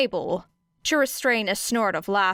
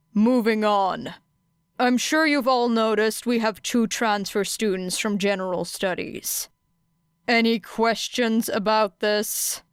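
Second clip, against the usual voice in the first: Aizawa's voice. Acted. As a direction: address the class flatly. Aizawa addressing class.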